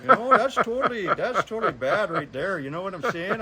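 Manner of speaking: laughing, loud hammed-up Canadian accent. Mechanic jokes to his buddies in a loud Canadian accent. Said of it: "bring the full Canadian accent".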